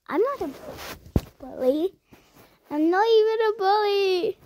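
high protest. Acted. Protesting a mean comment.

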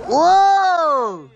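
high, loud whoa of surprise; startled shout. Real, not acted. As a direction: caught off guard, yelling. Big surprise on the wet course.

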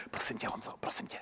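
whispered, pleading aside; hushed imitation of a speech coach; confiding adviser. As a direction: whisper it like a secret coaching note. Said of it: "přišel na rytmus řeči poradce a říkal".

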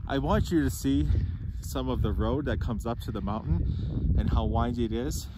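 breathless from the altitude; winded, short of breath. Real, not acted. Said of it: "we're a little out of breath".

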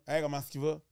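casual rural Québécois greeting; a hint of regional Québécois twang; regional Quebec accent. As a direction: greet like a small-town Quebec local. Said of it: "l'accent des régions".

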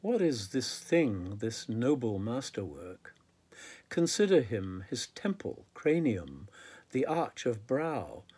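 measured, deliberate poetry reading; poem recitation. Acted. Poet reading a poem on a man's body to listeners, measured recitation. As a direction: recite it with weight on each phrase, pausing between images. Reads own poem aloud.

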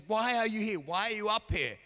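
retold distressed demand. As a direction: fire it at them like a challenge. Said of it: "they were suddenly saying to us".

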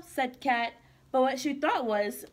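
put-on lively storybook read-aloud for kids; reading to children. Teacher reading a picture book to kids, bright and lively. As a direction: read it like circle time with little ones.

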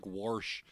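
wash with an r inserted, warsh. Retold or imitated. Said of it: "My dad says".

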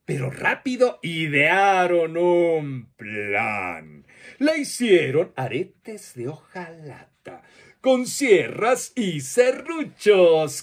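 put-on lively storyteller voice for children, with playful questions; reading to children. Storyteller telling children a monster tale, lively and playful. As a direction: tell it like a children's storyteller, drawing kids in.

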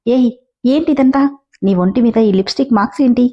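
mildly angry demand, pitch up on the first words; a touch of anger, not shouted; angrily. Acted. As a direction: confront him with a sharp angry question. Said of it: "కోపంగా".

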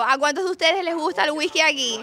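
livelier, firmer call for a show of hands; rousing repeat question. Real, not acted. Host re-asking the audience who likes whisky, rousing. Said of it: "vuelvo a hacer la pregunta de nuevo".

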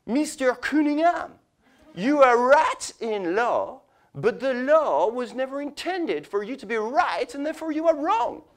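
high, slow mock French judge; lofty ruling voice, drawn out. Imitating the French judge delivering his ruling. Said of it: "and I quote".

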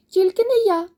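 high, loud little mouse; squealed mouse refusal; mouse crying out. A narrator's reading. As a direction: pipe up loudly as a tiny mouse refusing. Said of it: "закричало перше мишеня".

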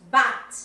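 loud, open-vowelled "but", not "boot"; correct "but" pronunciation. Shown as a demonstration. Teacher repeats the correction for Bianca, loud clear "but". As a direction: hit "but" hard as the corrected word. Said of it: "ojo con la pronunciación".

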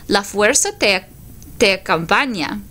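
a hint of a wise old alien master, unhurried; just a touch of Yoda, calm and knowing; lightly voiced Yoda. Teacher voicing Yoda in the class picture, faint wise-master voice. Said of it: "So here I have Yoda".

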